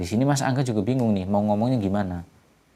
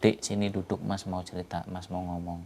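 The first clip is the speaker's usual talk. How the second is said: softer and softer, hesitant brother; heavy-hearted older brother calling his sister over; 6 dB quieter than usual. Acted. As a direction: break it gently, voice fading. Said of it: "dengan berat hati mengatakan".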